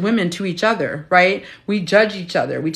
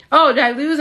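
higher, louder hopeful question; hopeful at the scale; 8 semitones higher, 4 dB louder than usual. Retold or imitated. A hint of herself hoping on the scale. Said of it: "was like".

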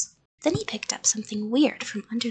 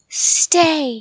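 loud, raised monster command; screamed; 4 semitones higher, 8 dB louder than usual. A narrator's reading. Monster starting up the stairs after the child, screamed. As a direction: bellow the order. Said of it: "he screamed".

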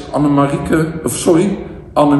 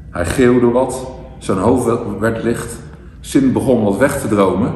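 measured verse reading with pauses between lines; poem recitation. Real, not acted. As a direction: recite a rhyming Sinterklaas poem line by line. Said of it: "ik ga het even voordragen".

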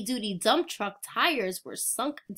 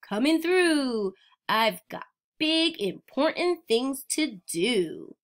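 bossy dump truck. Acted. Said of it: "yelled a dump truck".

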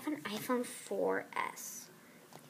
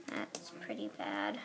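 low, whispered remark; 13 semitones lower, 6 dB quieter than usual. Real, not acted. Player whispering in dismay after the call fails. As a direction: mutter it under your breath as a whisper.

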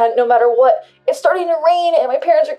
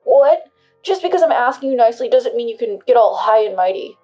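indignant anger; 2 semitones higher, 9 dB louder than usual. Acted. Husband offended by refusal.

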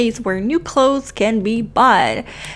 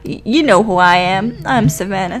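mock confident; 3 semitones higher than usual. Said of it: "trying my best to sound very confident".

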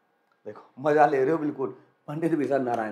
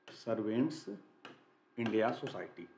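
lower, softer "सर्वेंट्स ... India सोसाइटी" with a pause after the first word; 4 semitones lower, 8 dB quieter than usual. Shown as a demonstration. Teacher dictating the society's name to students, broken up and soft. Repeats name in pieces while writing.

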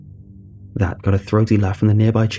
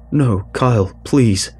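lightly voiced pleading grandad; slower than usual. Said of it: "my granddad pleaded".

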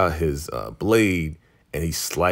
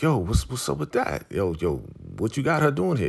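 higher-pitched mock disbelief; retold startled questioning; 5 semitones higher than usual. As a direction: imitate someone caught off guard, pitch jumping up. Retold suspicious question at surprise guest.

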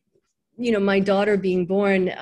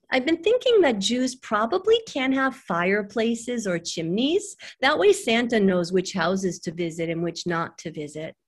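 voiced young daughter; 3 semitones higher than usual. Daughter explaining Santa to her mother, lightly voiced child musing. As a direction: lightly play a child thinking aloud.

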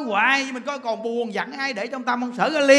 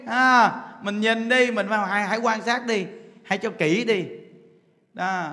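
ordinary talk, nothing marked

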